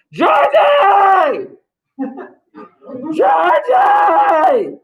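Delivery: high shout calling out a name; retold yelling. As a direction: yell the name into the dark.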